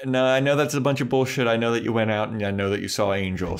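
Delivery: fast accusing rant as Spike; a quick, lightly voiced vampire tirade; rapid mock scolding. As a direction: rattle it off fast.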